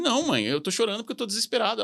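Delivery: high-pitched retold plea to mom; mock desperate. Son explaining his tears to his mother, mildly acted desperation. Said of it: "que eu cheguei em casa chorando".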